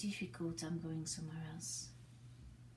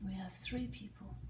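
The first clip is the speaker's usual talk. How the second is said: whisper; 4 dB quieter than usual. Real, not acted. Whispered aside during the improv.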